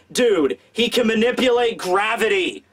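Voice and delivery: high-pitched, incredulous rant; exasperated protest. Acted. Voices T-Bone's imagined exasperated protest.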